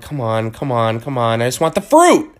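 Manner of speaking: losing patience with a self-checkout machine; frustrated pleading. Retold or imitated.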